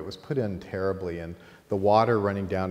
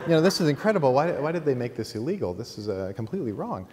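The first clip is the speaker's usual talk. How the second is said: amazed gushing; 5 semitones higher, 4 dB louder, faster than usual. Retold or imitated. Marvelling at the glowing table.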